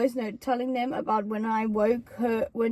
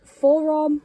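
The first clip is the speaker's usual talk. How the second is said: mock confident answer; 4 semitones higher than usual. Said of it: "I didn't say it like that".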